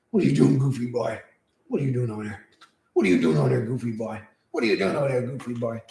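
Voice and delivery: sing-song pet talk to the dog. Real, not acted. Talking sweetly to his dog, sing-song baby voice. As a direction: coo at the goofy dog.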